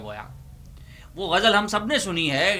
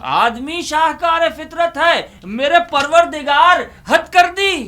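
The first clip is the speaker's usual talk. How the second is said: high, loud poetic declaim; loud climactic recitation; 10 semitones higher, 6 dB louder than usual. Acted. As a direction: hit the punchline verse high and loud.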